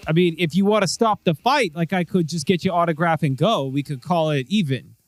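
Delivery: lightly voiced eager cop; sheepish cop. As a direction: talk your way out of the fight. GM continues cop voice.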